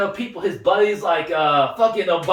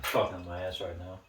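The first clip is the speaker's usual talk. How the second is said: redneck voice; 15 dB quieter than usual. Pretend. Mock redneck Trump rant.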